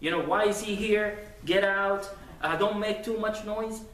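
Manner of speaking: mock brusque telling-off of a youngster; dismissive scolding. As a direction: imitate an adult shooing a child away. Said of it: "nowadays when we see a young man".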